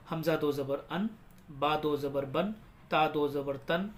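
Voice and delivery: slow, measured sing-song drill; spelling recitation. Shown as a demonstration. Teacher leading learners through do zabar, measured recitation. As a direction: chant each letter, then its sound.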